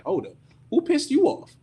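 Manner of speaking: high, pressing question to an angry friend; who did this to you, say it sharply; startled demand. Real, not acted.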